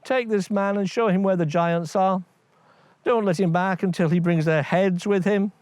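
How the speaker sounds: a king sending a man off to the giants; commanding king. Acted.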